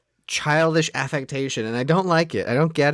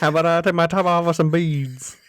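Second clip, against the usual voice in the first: mock New Orleans accent. Co-host as flirty heroine, mock New Orleans accent. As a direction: offer it in a put-on Southern accent.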